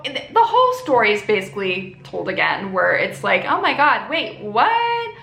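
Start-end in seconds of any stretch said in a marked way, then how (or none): 3.5-5.1 shocked. Retold or imitated. Molly shocked by the news.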